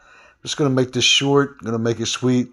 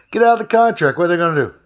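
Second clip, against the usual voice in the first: higher and louder, pushing her to act; retold emphatic urging; 7 semitones higher, 5 dB louder, faster than usual. Retelling how he told the owner to quit, raised urgent voice.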